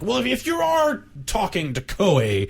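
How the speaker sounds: voicing Tecmo as a snooty rep; mock company spokesman. Mocking Tecmo's reply to Square.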